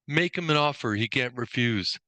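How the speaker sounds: put-on half-hearted Godfather accent; attempted Godfather accent. Trainer quoting the mafia father's line, attempted Godfather accent. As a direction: lightly attempt the mob boss's accent. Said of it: "I'm trying to do the accent".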